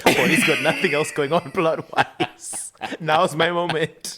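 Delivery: slow, laughing mock of Bonnie. Bonnie reading her script, slow and laughing. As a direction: savour the line like a scheming actress. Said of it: "She flipped through the script and was like".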